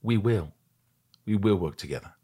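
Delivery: imitating an actor's understated intensity; measured promise, pausing between phrases; Gary Oldman intensity. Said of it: "Gary Oldman intensity that he just looked at me".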